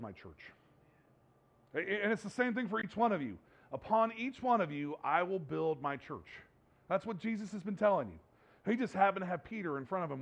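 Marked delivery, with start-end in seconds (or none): 3.7-6.3 slow scripture quote. Acted. Quoting Jesus slowly to congregation.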